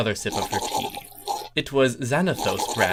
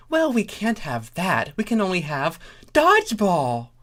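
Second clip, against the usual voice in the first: high pony voice; 8 semitones higher, 4 dB louder than usual. Acted. Starlight reply.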